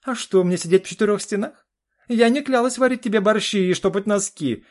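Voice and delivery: очень высоко и громко, с вызовом; огрызайся в ярости; гневно. Acted. Жена огрызается на мужа. (жена кричит на мужа, высоко и громко)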